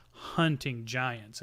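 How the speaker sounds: HUNTING GIANTS drawn out slowly in quote marks; air-quoted HUNTING GIANTS. Acted. Gnome offering to pay, HUNTING GIANTS slowly said in air quotes. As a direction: set HUNTING GIANTS apart as a knowing code word. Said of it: "as he air quotes the whole thing".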